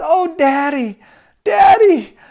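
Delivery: high, loud rising cry; tearful cry of Daddy. Acted. Daughter bursting from hiding, crying out to her father. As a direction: burst out calling for him. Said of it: "bursting out from behind the door".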